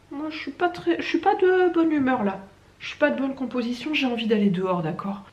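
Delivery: high, grumpy pet voice; voicing the cat. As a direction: speak for the sulky cat. Fait parler le chat. (voix du chat grognon)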